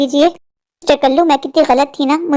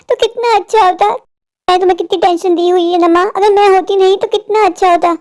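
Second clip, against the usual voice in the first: acted despair in a raised pitch; 3 semitones higher than usual. Daughter telling mother she has given up, despairing. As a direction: plead wearily, voice pitched up.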